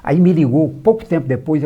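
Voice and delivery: normal talking voice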